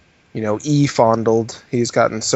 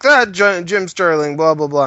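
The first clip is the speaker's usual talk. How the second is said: raised, punchy voice of a ranting fan; mock fan email; 4 semitones higher, 4 dB louder than usual. Imitating a fan emailing Nero, pitched up and punchy. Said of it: "be like".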